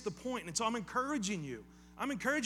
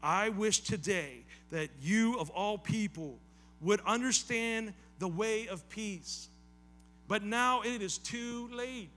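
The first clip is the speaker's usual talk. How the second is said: slow, louder lament; sorrowful Jesus; 4 dB louder, slower than usual. Acted. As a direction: voice Jesus grieving, slowly. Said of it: "think of the tone of voice he's using".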